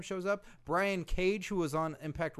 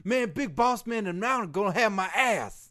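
hammed-up panic; 5 semitones higher, 7 dB louder than usual. Panicked skit lament.

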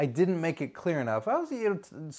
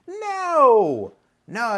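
a sharp, much higher, louder no; emphatic no; 9 semitones higher, 8 dB louder than usual. Real, not acted. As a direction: shut the idea down hard. Emphatic rebuttal of his own idea.

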